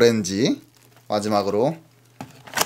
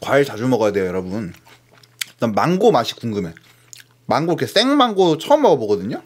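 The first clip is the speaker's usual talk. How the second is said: talking between bites; chewing while talking; 3 semitones lower than usual. Real, not acted. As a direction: mouth partly full of apple. Seen 0: Bites apple at -2, mouth keeps working while talking after.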